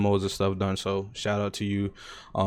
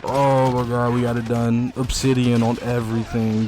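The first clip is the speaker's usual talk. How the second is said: raging gamer; 2 semitones higher, 4 dB louder than usual. Real, not acted. Louder triumphant celebration.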